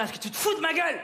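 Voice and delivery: high-pitched indignant challenge; indignant translation. Acted. Comic translates officer's challenge.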